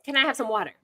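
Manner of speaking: mom gently correcting with "water"; mom modeling English. Retold or imitated. Mom repeating the request with "water" to model English. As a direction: prompt the kid to say "water" instead of "agua". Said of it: "I'd be like".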